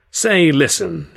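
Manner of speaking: sorrowful. A narrator's reading. Sennett breaks bad news to the comedians, sorrowful. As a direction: stretch it out apologetically. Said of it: "he said, hanging his head sorrowfully".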